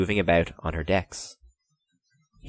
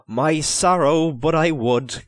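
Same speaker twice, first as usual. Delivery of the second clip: fake sadness; 7 semitones higher, 5 dB louder, slower than usual. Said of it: "with a fake sadness".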